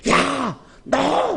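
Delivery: 높게 툭 내지르는 부름; 다그치듯 높은 소리로 부르기. Shown as a demonstration. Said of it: "이런 소리가 아니라 귀에다 대고". (거칠게 부르는 소리)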